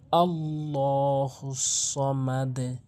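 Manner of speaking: very slow chanted verse; recitation. Shown as a demonstration. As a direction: draw the verse out slowly.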